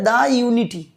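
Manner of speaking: "the" pronounced "daa" before "unity". Shown as a demonstration. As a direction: say "the" with an open aa. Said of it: "দা উচ্চারণ করা হচ্ছে". ("the"-কে "দা" উচ্চারণ)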